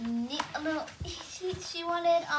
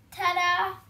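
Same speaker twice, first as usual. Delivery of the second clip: showy ta-da; 4 semitones higher, 7 dB louder than usual. Acted. Reading Daddy's big reveal.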